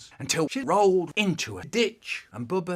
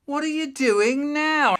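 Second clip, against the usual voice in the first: high, loud mother catching him; stern mum; 11 semitones higher, 7 dB louder than usual. Retold or imitated. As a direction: call out sharply at the boy. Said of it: "Mum comes in and says".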